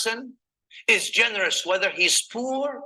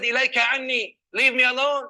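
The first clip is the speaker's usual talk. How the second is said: sharp retort; 6 semitones higher, 4 dB louder, faster than usual. Acted. Grieving woman rebuffs the Prophet.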